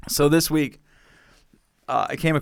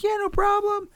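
high, chirpy mock receptionist voice; receptionist's breezy reply. Imitating the receptionist's high, cheery yes. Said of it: "And she was like".

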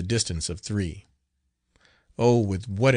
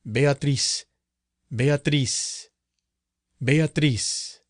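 slow, solemn calling of a name; solemn summons; 4 semitones higher, much slower than usual. A narrator's reading. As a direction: intone it like an exorcist. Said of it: "in a voice distinct and solemn".

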